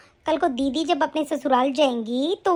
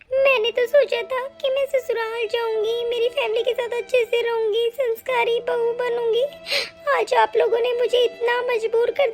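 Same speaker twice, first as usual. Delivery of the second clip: tearful; 3 semitones higher than usual. Acted. Bride breaks down recalling hopes.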